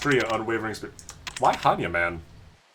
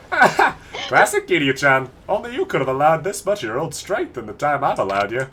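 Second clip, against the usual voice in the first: voicing game characters. Reading game dialogue aloud.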